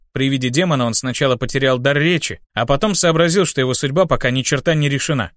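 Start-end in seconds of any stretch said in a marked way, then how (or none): none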